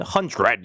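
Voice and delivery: "hundred" with a heavy, full "RED" ending; overpronounced "hundred". Shown as a demonstration. Teacher showing Korean learners the mistake, overpronounced "hundred". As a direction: hit the second syllable of "hundred" hard as "hun-DRED". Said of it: "이게 아니라 hundred예요".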